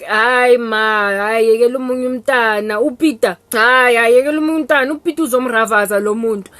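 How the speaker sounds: loud, fast pleading son; protesting son. Retold or imitated. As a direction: talk mom out of it quickly. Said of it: "And Vazi's like".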